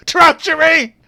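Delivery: very high, full-force yell; startled yell. Acted. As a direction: yell it as if jolted from a nightmare. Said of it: "and he yells".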